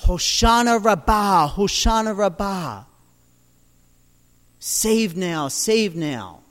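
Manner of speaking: chanting the cry with a lift. Retold or imitated. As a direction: call it like the crowd at the feast. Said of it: "as they're crying out".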